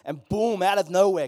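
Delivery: dramatic sudden boom; sudden burst. Acted. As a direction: burst in after the hush. Sudden angel appearance.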